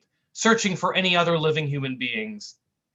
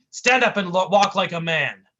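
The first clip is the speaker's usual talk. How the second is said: tough guy scolding; 3 semitones higher, 6 dB louder than usual. Acted.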